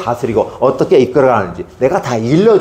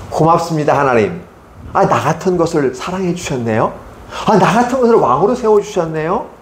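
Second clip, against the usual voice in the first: humble grateful Saul; 4 semitones higher than usual. Acted. Voicing humble Saul thanking God.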